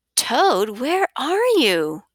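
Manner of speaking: rising tune, lifted a touch. Reading a story aloud, the reader voices Frog calling for Toad, voice raised a little higher. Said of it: "did you raise your voice to be a little higher".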